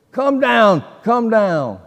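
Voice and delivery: put-on retelling a drunk man yelling at the sky; imitating a scream at God. Preacher retelling Lieutenant Dan's drunken yell at God, mock shout. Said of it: "he's just screaming at God".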